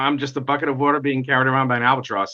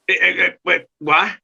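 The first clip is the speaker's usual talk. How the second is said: stammering, higher-pitched disbelief; shocked; 6 semitones higher than usual. Retold or imitated. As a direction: stammer as if thrown by the news. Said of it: "I was just too shocked".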